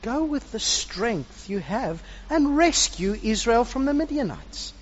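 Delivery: slow divine commission building to a loud finish; voice of the Lord. Acted. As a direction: send him out with slow authority.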